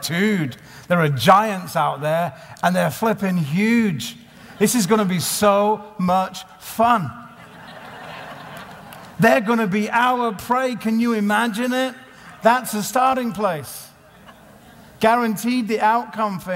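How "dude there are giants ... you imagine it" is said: rising, eager and thrilled; excited. Retold or imitated. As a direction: relish the giants ahead. Caleb came back really excited.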